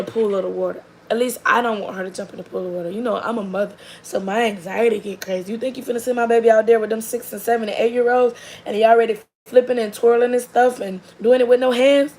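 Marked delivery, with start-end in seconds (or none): 5.5-12.1 fast, rising indignant rant, louder at the end; protective mom protest. Retold or imitated. Mother telling off the coach, fast indignant protest. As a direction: fire it off like a mama bear.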